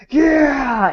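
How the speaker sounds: high, elated whoop; mock cheer. Freed inmate let out of the jacket, mock cheer.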